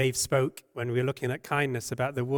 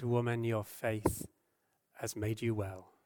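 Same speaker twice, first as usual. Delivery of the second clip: gentle. Acted. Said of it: "He spoke gently to her".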